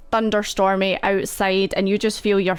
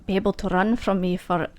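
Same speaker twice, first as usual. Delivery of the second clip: higher, taunting villain voice; menacing mentor; 4 semitones higher than usual. Acted. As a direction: gloat over the captured pupil.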